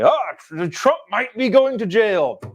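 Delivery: sarcastic fake panic about Trump; mocking news alarm. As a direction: parody the breathless newscaster.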